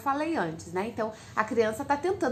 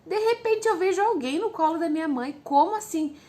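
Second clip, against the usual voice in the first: put-on child's shocked surprise; 7 semitones higher than usual. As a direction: jump up in pitch as if caught off guard. Child sees sibling on mom's lap. (criança surpresa, bem mais aguda)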